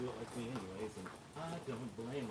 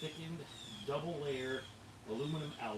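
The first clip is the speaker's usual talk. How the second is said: DJ voice; 3 semitones higher than usual. Shown as a demonstration. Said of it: "I just use my D J voice".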